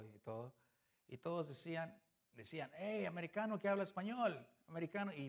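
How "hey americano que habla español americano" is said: louder, higher mock call across a yard; teasing shout of americano. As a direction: hail him like the kids did. Kids calling out to Roberto.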